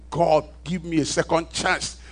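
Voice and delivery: a man recounting his shout from the edge of hell; retold desperate shout. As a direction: beg for another chance at the top of the voice. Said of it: "And I was shouting".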